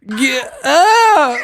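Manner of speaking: high squealed yell; a rapper. Retold or imitated. Streamer copying the played clip for laughs, squealing imitation. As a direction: echo the clip in a shrieking falsetto. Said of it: "He said".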